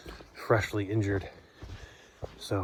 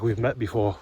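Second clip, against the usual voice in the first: retold line in an Australian accent; imitating an Australian hiker's accent; imitated Australian accent; 4 dB louder than usual. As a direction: put on a light Australian accent. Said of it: "that accent".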